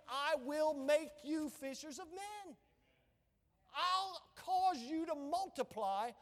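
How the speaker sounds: worked up. Real, not acted. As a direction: preach it worked up, stretching the key words. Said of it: "I'm getting a little worked up".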